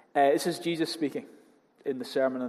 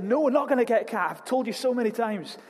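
lightly voiced fed-up mother; mock stern mum; 6 semitones higher than usual. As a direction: scold the nagging kid, half-hammed. Mother refusing child in story.

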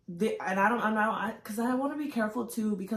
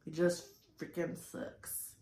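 quiet sucks; 3 semitones lower, 9 dB quieter than usual. Real, not acted. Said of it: "I can be fully honest and say it sucks".

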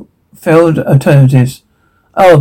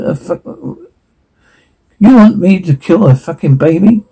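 horrified disbelief; 2 semitones higher, slower than usual. Acted. Horrified at being asked to kill.

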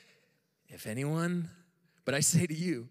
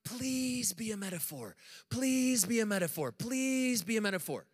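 pleading inner voice; 3 semitones higher than usual. Retold or imitated. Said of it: "I'm like".

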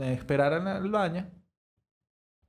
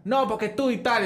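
retold protest; 6 semitones higher than usual. Acted quarrel turning on the teller.

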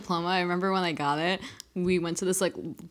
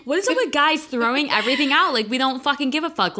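ranting; 7 semitones higher than usual. Real, not acted. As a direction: vent in disbelief. Rant about guys throwing stuff.

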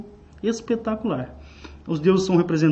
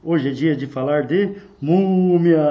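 dusty mummy rasp; 4 dB louder, slower than usual. Pretend. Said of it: "como a múmia disse".

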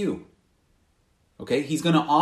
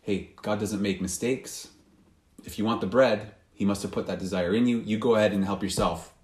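lower tempting voice; 5 semitones lower than usual. Retold or imitated. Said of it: "Maybe it's".

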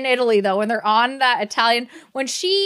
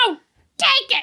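high, put-on pleading voice; sing-song mock insistence; mock pushy offer; mock character voice; 10 semitones higher than usual. Mocking characters in movie recap.

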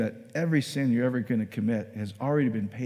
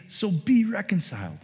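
drawn-out, higher-pitched plea; pleading; 5 semitones higher than usual. Acted. Paul pleading with believers to reconcile, pleading. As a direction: plead it slowly, pitch up then falling. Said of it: "then Paul pleads".

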